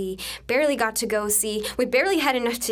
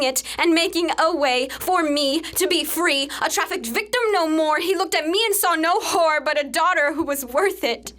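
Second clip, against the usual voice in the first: fervent rise; 3 semitones higher than usual. Acted. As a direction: testify with rising passion. Redemption climax of the poem.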